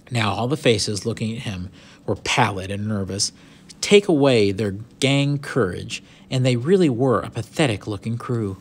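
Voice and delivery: animated storybook reading, lively pitch; story narration. A narrator's reading. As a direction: read the adventure out with expression. Reads the story aloud.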